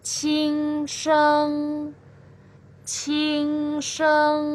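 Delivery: qing sheng light and toneless; neutral tone name. Shown as a demonstration. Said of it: "nada netral disebut juga dengan".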